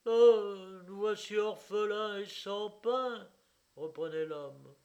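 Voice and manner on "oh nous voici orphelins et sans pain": high, loud self-pitying wail; loud lament. Acted. Owner lamenting they are orphans without bread, loud wail. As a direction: wail over ruin.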